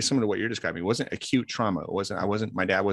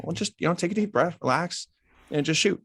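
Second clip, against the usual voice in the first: lighter, higher coaxing voice; reassuring coach; 10 semitones higher than usual. Retold or imitated. Coach to nervous kid before a shot, reassuring. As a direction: ease a nervous player along.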